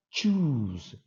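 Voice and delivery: "Choose" with a ch start and a long u; teacher models "Choose" as chooz; pronunciation demo. Shown as a demonstration. Teacher shows students the sound, a clear "Choose". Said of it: "Olha a pronúncia".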